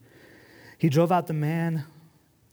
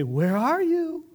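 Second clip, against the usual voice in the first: high, slow singsong "Where are you?"; playful parent seeking; 14 semitones higher, 3 dB louder, much slower than usual. Retold or imitated. Parent calling to giggling hidden kids, high playful singsong. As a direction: sing it out like a parent playing hide and seek. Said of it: "And you say".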